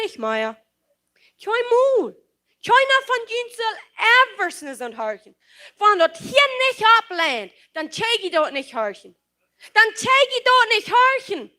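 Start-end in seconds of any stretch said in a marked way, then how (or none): 1.4-5.4 fervent preaching shout; preacher's cry. Real, not acted. Preacher crying out to congregation. 9.7-11.5 higher and louder, hammered home; preacher driving the point home; emphatic repeat. Real, not acted. Preacher repeats line, second louder.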